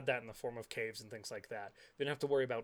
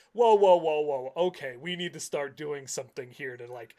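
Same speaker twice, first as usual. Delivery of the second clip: alarmed architect; 3 semitones higher, 10 dB louder than usual. Retold or imitated. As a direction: call a halt in alarm, then plan. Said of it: "the architect is like".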